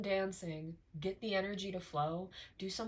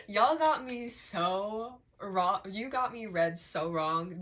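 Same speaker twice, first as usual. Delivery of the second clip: exasperated; 7 dB louder, slower than usual. Real, not acted. Addresses detractors mockingly.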